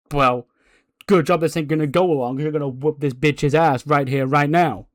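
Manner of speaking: loud, no-excuses put-down; forceful retort. Acted. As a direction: overrule them with punch. Acted boss overrides the excuse.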